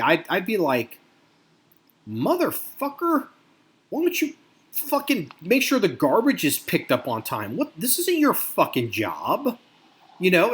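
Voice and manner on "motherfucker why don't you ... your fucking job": high mock yell on the first word, then a lighter rant; a resident chewing out the mayor; mock angry rant. Imagined resident scolding the mayor over garbage pickup, mock anger.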